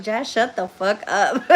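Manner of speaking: imitating viewers telling her to shut up, laughing; laughing mock order.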